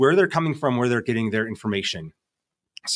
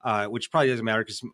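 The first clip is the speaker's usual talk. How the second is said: nasal, whiny voice from a cold; weak voice from a cold; 4 semitones lower, 4 dB quieter than usual. Real, not acted. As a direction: talk through a head cold, weak and nasal. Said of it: "whiny sounding, nasally voice".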